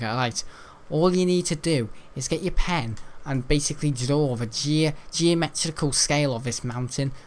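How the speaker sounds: lightly put-on Scouse accent; Scouse-accented classroom instructions, mildly mimicked; Scouse geography teacher. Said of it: "geography teacher about Scouse said".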